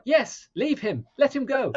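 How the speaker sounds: high, loud and slow urging; urging the screen. Retold or imitated. Fan yelling at the character, high and loud. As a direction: beg her to let him go. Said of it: "And I'm like".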